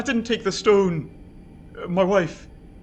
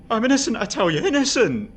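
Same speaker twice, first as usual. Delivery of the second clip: louder, higher cry of innocence; desperate outcry; 3 semitones higher, 3 dB louder than usual. Acted. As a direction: shout it at the jailer. Prisoner cries out after taunt.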